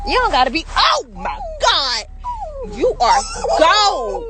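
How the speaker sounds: delighted squeal of praise; excited shout. Real, not acted. Excited at animals through car.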